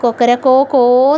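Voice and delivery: lightly imitated crowing, last note stretched; rooster's crow. Shown as a demonstration. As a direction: crow like a rooster, gently and half spoken. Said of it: "അവരെങ്ങനെയാ കരയുന്നത്". (കോഴി കരയുന്നത് ചെറുതായി അനുകരിച്ച്)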